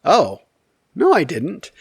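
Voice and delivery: retold puzzled denial; mock surprise. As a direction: play innocently clueless, pitch jumping up. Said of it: "So he's like".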